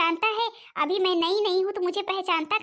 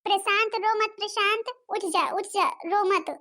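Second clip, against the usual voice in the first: put-on higher voice, gently hushing a child; coaxing big sister; 5 semitones higher than usual. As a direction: coax a crying brother to get up. Sister coaxes crying brother up. (रोते भाई को मनाती दीदी)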